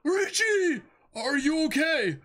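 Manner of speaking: loud, high worried shout; high anxious cry. Acted. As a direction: call out in alarm to the cat. Character calls out to cat.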